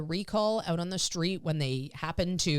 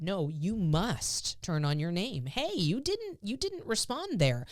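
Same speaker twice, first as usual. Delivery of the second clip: firm correction; 3 semitones higher, slower than usual. Retold or imitated. Scolding dog for ignoring.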